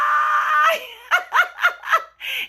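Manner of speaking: high, loud cackling laugh; real laughter. Real, not acted. Host cracks up at the phone reveal, loud high laughter. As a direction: burst out in a long, shrieking laugh.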